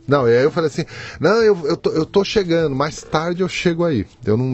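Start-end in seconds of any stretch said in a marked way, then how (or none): 1.2-4.1 higher-pitched, hasty reassurance; reassuring cover-up. Retold or imitated. Freed father telling his son he's coming, reassuring. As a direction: play down the trouble in a raised voice.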